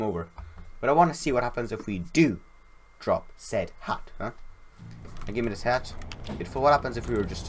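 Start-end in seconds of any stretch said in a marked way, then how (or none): 3.0-4.3 slow, whispered tease; hushed playful aside. Real, not acted. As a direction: drop it to a sly slow whisper. Teasing what happens if hat drops.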